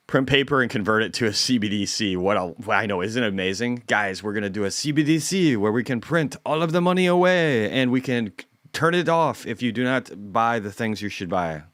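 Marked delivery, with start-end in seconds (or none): 3.9-11.6 hammed-up banker pitching CBDC; mock central banker. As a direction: sell the surveillance money like a cheerful villain. Mocking the central bank's CBDC plan.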